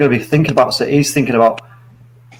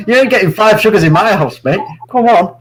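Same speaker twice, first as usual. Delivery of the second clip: incredulous; 6 semitones higher than usual. Real, not acted. Refuses five sugars, laughing.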